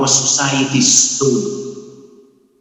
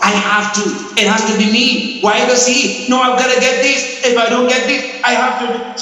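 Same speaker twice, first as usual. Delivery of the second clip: higher, pressured inner voice of a stressed man; anxious grasping voice; 8 semitones higher than usual. Retold or imitated. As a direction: play the man who can't let go, a little frantic. Voicing a stressed, grasping person.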